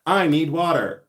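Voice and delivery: half-yelled, punchy announcement; loud announcing. Real, not acted. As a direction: announce it to the whole room. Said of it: "I have to announce everything".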